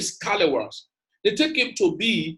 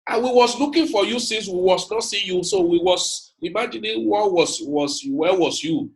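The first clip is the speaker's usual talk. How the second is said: lightly voiced father asking where his son was; father's broken English. Father searching for his son, mock broken English. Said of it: "my father now tried to blend up".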